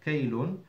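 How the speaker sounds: "kaylun" as kay-lun, with ay glide; fatha on kaf. Shown as a demonstration. Teacher repeats the Quranic word, "kaylun" with ay. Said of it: "kaylun with the fatha".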